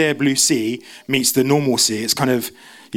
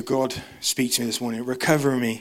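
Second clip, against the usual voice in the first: soft prayer; 3 semitones lower, 5 dB quieter than usual. Acted. Prayer spoken over the congregation.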